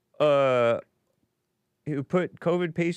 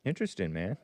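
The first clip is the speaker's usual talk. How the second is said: underwater phone line; 4 semitones lower, faster than usual. Real, not acted. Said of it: "you sound like you're underwater".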